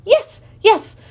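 high, loud royal yell; excited creature king bellowing. Acted. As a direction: shout it at the top of his voice. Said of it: "the king yelled at the top of his voice".

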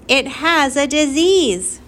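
high, slow, loud alarm; screamed. A narrator's reading. Mother warns Flora off the squirrel, screaming. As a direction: stretch out the panicked warning, high and loud. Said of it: "screamed her mother".

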